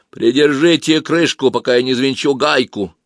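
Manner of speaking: hollow muffled mumble from inside; muffled, as from a barrel. Acted. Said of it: "глухо, как из бочки, пробубнил".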